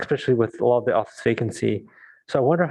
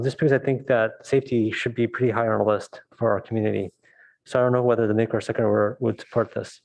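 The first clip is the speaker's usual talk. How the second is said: muffled. Real, not acted. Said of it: "you're kinda muffled".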